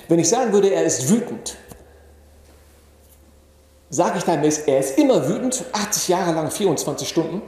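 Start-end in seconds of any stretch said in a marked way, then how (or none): 4.7-5.6 "immer" pushed higher within the phrase; stress on immer. Shown as a demonstration. Teacher testing whether the brother is always angry, stress on "immer". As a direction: lean hard on "immer", questioning it. Contrasts always with right now.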